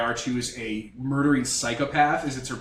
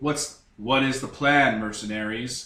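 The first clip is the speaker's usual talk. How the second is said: slow, bored, flat, dull, drawn-out voice. Narrating to the players on the ship, the speaker does Queen Amidala's boring voice. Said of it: "Says Queen Amidala in her boring voice".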